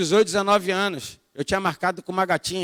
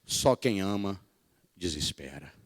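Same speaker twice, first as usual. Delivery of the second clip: imitating the missionary; 12 semitones lower, 8 dB quieter than usual. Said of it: "Ela fala".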